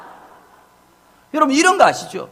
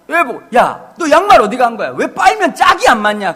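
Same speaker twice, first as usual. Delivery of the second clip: scolding son; 4 dB louder than usual. Retold or imitated. Scolding son about socks.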